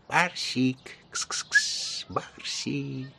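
whispered kitty call; hissing under breath. A narrator's reading. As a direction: hiss to the cat under your breath. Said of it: "шипя под нос". (шёпотом, шипя под нос)

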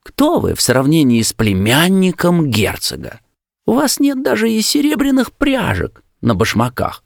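high, haughty indignation; indignant high-voiced disdain; angry scorn. A narrator's reading. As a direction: put someone down, pitch climbing high. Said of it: "сердито крикнула девушка".

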